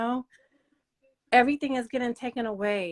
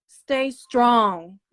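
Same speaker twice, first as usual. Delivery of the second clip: "Stay strong" called out loud and firm; loud, firm encouragement; rallying cry; 7 dB louder than usual. Real, not acted. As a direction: call out to them to stay strong. Urging women to stay strong.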